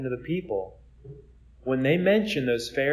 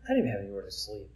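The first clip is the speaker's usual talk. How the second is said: calm, quiet reply; 5 semitones lower, 7 dB quieter, much faster than usual. Retold or imitated. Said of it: "he just calmly says".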